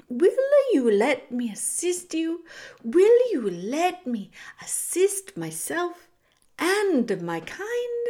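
grandiose, swooping rat plea; oily rat feigning goodwill; theatrical rat villain. Acted. Rat makes his false plea.

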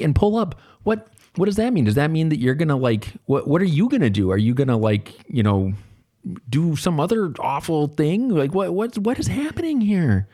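very high, exaggerated baffled questioning; mock bewilderment. Lame suburban teacher asking students what slang means, exaggerated bewilderment. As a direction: squeak out comic confusion, pitch jumping up.

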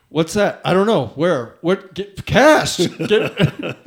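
frantic, loud, high play-by-play; mock panicked guide chatter; excited commentary. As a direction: yelp it out like panicked fishermen. Retold frantic fishing commentary.

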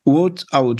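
English with a non-native French accent; poor English accent. Real, not acted. Apologetic guest quoting Trump to the host, poor English accent. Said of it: "désolé pour l'accent anglais".

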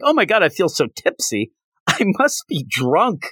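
a hint of put-on tipsiness; pretend drunk. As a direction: imitate someone faking being drunk. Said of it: "then pretends she's drunk".

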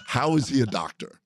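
badly faked Irish accent, amused; attempted Irish accent. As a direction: imitate baffled Irish colleagues with a shaky grasp of the accent. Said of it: "I can't even do an Irish accent".

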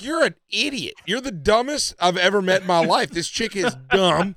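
high-pitched mock scolding; retold exasperation. Friend scolding Smitty for loving her, exasperated. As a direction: act out berating a lovesick friend, voice up.

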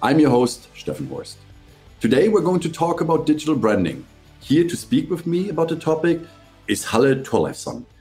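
upbeat pitch-lifted scripted show opening; podcast host intro. Real, not acted. Host welcoming listeners and introducing the branding guest, presenter voice.

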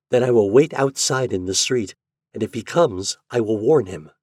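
a hint of a worried young girl; young Yuli's voice. Yuli plans to warn David.

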